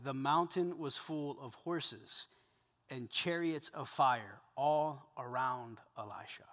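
slow, hushed reading; whisper. Acted. Preacher reading the chariots of fire to his men in a whisper. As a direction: breathe the vision out in a whisper.

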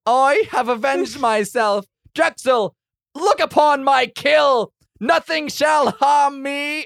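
high, loud, slow boast; character voice. Acted. Warrior boasting to Drexel over his kill. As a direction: proclaim victory in a hammy hero voice.

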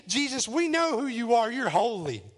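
crying out. Acted. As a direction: cry it out emphatically. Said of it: "cried out".

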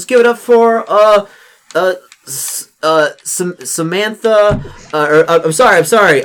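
high, loud flustered announcer voice; student president announcing the wrong queen; stumbling announcer. Acted. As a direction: fumble the name on the mic. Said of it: "and he's like, he's like".

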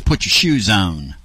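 put-on slow, drawn-out Tennessee accent; low, lingering Southern accent on the words; wife's country accent. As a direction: imitate the wife's Tennessee drawl. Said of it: "My wife, she says".

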